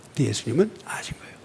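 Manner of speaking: fast soft unvoiced aside; quiet whisper. Real, not acted. Preacher whispering to the congregation, fast hushed aside. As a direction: whisper it quickly like a secret.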